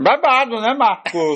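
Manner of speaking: talking with mouth full. A co-host answers her partner while eating: speaking with mouth full. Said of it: "E a senhora já com a boca cheia".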